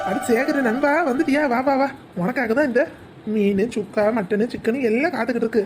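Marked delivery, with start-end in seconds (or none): 0.1-1.9 higher-pitched, delighted greeting to a buddy; hearty, high-pitched hello; excited welcome. Acted. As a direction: welcome your friend in eagerly. Host greets his arriving drinking buddy.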